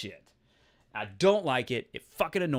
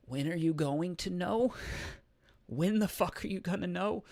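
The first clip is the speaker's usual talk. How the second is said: retold impatience; 4 semitones higher than usual. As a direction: re-enact pressing someone who keeps stalling. Acts impatience with stalling answers.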